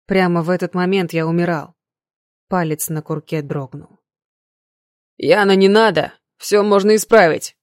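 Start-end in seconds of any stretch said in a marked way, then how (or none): 5.2-7.6 loud, anxious pleading cry; nervous shout. A narrator's reading. Ignat begging Yana not to shoot, loud and nervous. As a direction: shout to stop her, scared. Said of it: "нервно произнёс Игнат".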